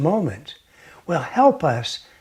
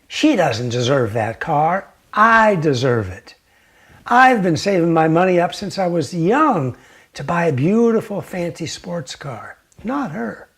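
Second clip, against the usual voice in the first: a touch of louder resentful muttering; mildly acted jealous complaint; jealous grumble; 3 dB louder than usual. Jealous man resenting neighbor's Ferrari, mild angry grumble. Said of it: "He immediately gets jealous and angry".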